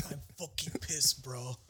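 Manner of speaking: soft, trailing European surfer imitation; mock surfer accent. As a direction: try a muddled Danish-Australian surfer accent. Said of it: "Are you Australian?".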